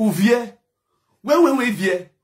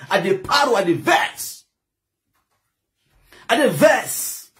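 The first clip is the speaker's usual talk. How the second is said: angry; slower than usual. Real, not acted. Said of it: "I'm bitterly angry from the pit of hell".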